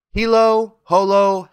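loud, high magic words; charm incantation. A narrator's reading. Dorothy reciting a charm on one foot, loud incantation. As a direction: call out each word high and strong.

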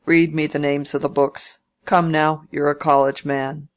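a hint of a testy old uncle, pushing hard; old Featherstone.

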